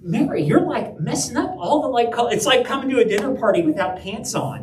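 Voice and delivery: Martha. Retold or imitated. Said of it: "Martha might be mad at her sister".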